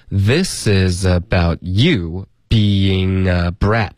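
very slow, word-by-word teaching pace, YOU stressed; model reading. Shown as a demonstration. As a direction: read "this is about you being a brat" slowly for learners. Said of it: "我们把这个句子读一下". (很慢地示范朗读整句)

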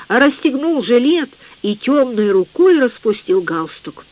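usual speaking voice

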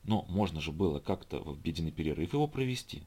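mild reasonable suggestion; softly. A narrator's reading. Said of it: "мягко ответил Иван".

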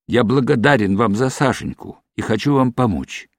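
ordinary delivery, nothing marked

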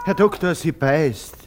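high, loud yelp of alarm; a frightened patient calling to the doctor; alarmed cry. Acted. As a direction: cry out as the cat bites. Cat bites the patient.

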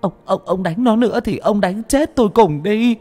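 high, loud begging cry; mother shielding her son from the father; desperate plea. Acted. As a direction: throw yourself in and plead.

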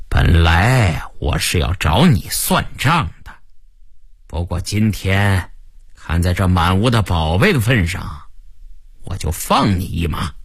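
lightly voiced boss granting mercy; magnanimous gang boss. (略显傲慢的老大口吻)

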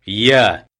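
loud surprise interjection; sudden exclamation. A narrator's reading. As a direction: cut in from behind. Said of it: "неожиданный возглас". (неожиданный возглас)

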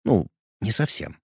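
usual speaking voice

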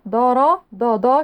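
dark heavy د in دا, like ض; over-darken every دا to match را; thickened dal demo. Shown as a demonstration. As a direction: show the mistake with a thick, back-vowelled دا. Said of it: "شايفين الدال؟".

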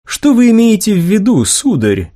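high-voiced lady general, questioning. A narrator's reading. Lady general answering a muttering subordinate, questioning.

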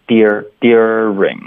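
"dear-, during" with d linked into ye; linked d-ye sound. Shown as a demonstration. Teacher breaks down the standard variant, linked dyur in "during". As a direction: glide from d into ye on "during". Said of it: "有一个的连读到耶的音".

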